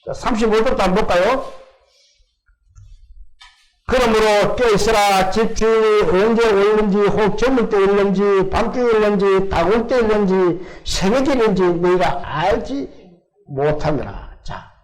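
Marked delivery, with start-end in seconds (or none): 3.9-14.4 measured, even-toned Bible reading; scripture reading. Acted. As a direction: read the verse out to the congregation. Reads a Bible verse aloud.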